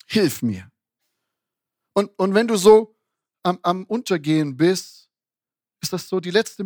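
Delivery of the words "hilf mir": desperate plea. Retold or imitated. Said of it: "ruft Petrus zu Jesus".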